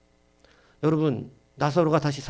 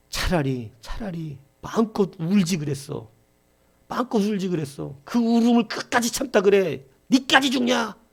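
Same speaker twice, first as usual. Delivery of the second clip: from a slow plea building to high, loud crying shouts; retold wailing shout; 8 semitones higher, 4 dB louder than usual. Grieving husband crying out over his dead wife, building to a wail. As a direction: start by pleading slowly, then break into a higher, louder wail. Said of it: "고래고래 소리 지르면서 울".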